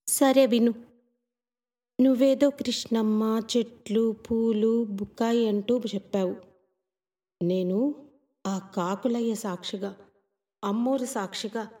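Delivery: lightly voiced girl growing quiet; village girl, fading.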